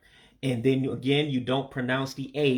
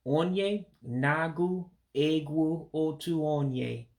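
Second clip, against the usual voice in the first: "onye nagu egwu otu onye" slowly, word by word; slow breakdown; 3 semitones higher, slower than usual. Shown as a demonstration. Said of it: "let me say it ... more natural".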